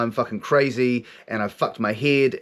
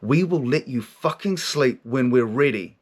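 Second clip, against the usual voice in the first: slow, measured retold pronouncement; forceful inner voice; slower than usual. Voice answers his plea for sleep, slow and forceful. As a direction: imitate an authority laying down terms, slowly. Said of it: "comes in with this force of energy".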